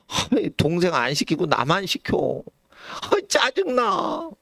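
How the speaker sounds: grandchild's annoyed whine, ending in a high, slow shout; whiny child's sudden high, drawn-out yell; whiny grumble. Retold or imitated. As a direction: grumble at the errand, then burst out. Grumbling grandchild sent on errand.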